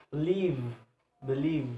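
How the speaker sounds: BELIEVE with a long LIEVE; second-syllable stress. Shown as a demonstration. Teacher showing word stress, BELIEVE stressed on LIEVE. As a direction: shorten BE, hold LIEVE in BELIEVE. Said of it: "the second syllable".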